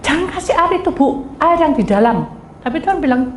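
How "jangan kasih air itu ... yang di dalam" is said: retold child's yell. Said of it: "anak yang pertama teriak".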